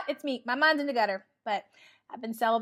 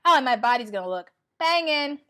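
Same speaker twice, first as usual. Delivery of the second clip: giggling while boasting; laughing brag; 6 dB louder, faster than usual. Real, not acted.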